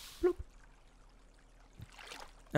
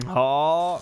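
surprised; 5 semitones higher, 7 dB louder than usual. Real, not acted. Surprised exclamation.

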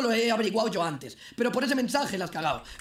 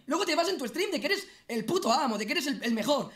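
angry rant; 4 semitones higher than usual. Real, not acted. Scolding Shokas, high pitched rant.

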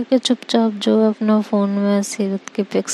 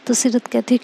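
plain reading voice

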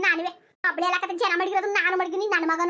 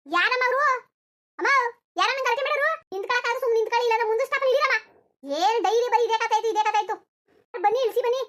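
exasperated conductor; 4 semitones higher than usual. Acted. Conductor scolds quarreling passengers.

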